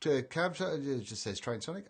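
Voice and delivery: ordinary talk, nothing marked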